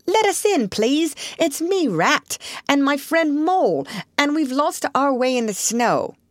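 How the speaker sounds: high, pleading little character voice; Rat crying out. A narrator's reading. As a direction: plead to be let in, pitched high. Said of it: "cried the rat".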